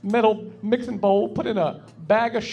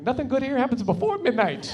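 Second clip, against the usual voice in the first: "before" lightly stressed, a bit higher; 4 semitones higher than usual. Retold or imitated. Teen son twisting his mom's warning, a light stress on "before". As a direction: lean a little on "before". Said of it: "I'm like".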